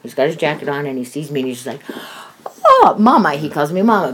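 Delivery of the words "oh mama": imitating a child's delighted cry, higher and louder; excited toddler greeting. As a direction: mimic a little kid thrilled to see grandma. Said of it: "he's so excited to see me".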